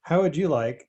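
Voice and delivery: host serving Lovecraft fans, a touch sinister; mock host. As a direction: offer the dish like a gracious villain.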